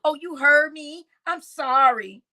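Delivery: high mock of her flippant apology; high mocking imitation of the woman. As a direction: mimic her sarcastically. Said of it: "Y'all heard that?".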